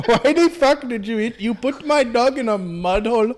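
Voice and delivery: hammed-up Indian accent. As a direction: protest in a put-on Indian accent. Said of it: "do an Indian accent".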